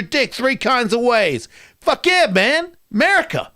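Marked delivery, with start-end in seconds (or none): 1.8-3.5 mock patriotic cheer.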